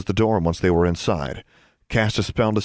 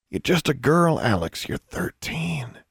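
pleading; 4 semitones higher, slower than usual. Acted. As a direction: beg her gently to stay back. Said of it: "It sounded like a plea".

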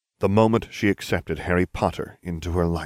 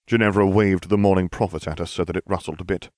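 ordinary delivery, nothing marked

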